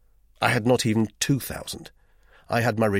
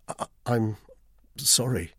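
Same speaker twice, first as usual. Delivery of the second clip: stammering; 3 semitones higher than usual. Acted. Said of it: "I stammered".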